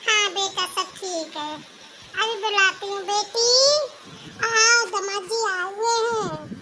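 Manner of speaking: a hint of an indulgent older mother, a little low; soothing mom who excuses her daughter, mildly played; lightly voiced old mother. Mother role greets son-in-law. (हल्की सी बुज़ुर्ग माँ की आवाज़)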